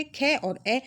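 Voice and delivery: खे then ए said apart to show the vowel; consonant demo. Shown as a demonstration. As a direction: split खे into ख and ए. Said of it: "खे को बोल के देख लीजिए".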